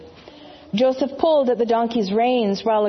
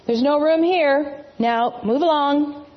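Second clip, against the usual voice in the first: higher, slow dismissive innkeeper; gruff innkeeper; 6 semitones higher than usual. Acted. Innkeeper turning the couple away, gruff and dismissive. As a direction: shoo them off the doorstep.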